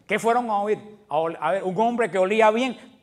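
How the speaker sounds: ironic. Shown as a demonstration. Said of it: "Se reía".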